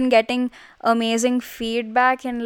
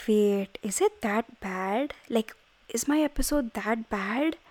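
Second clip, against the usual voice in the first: worried self-quote; 8 dB quieter, slower than usual. Retold or imitated. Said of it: "And I was like".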